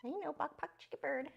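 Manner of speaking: high soft squeak copying the bird; high little parrot voice; squeaky bird talk. Real, not acted. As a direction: chirp it back to him softly. Repeating bird's words to bird.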